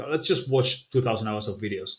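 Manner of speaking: plain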